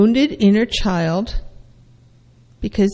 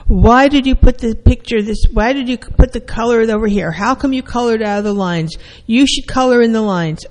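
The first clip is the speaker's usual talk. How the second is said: scolding parent; 2 semitones higher than usual. Retold or imitated. Parent scolding a child for coloring outside the lines, stern. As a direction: correct the child's coloring sharply.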